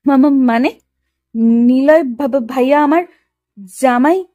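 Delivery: flustered, stuttering on first syllables; shy stammering. Acted. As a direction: stumble haltingly over the words, embarrassed. Shy bride stammers, then shrinks back. (লজ্জায় তোতলাতে তোতলাতে)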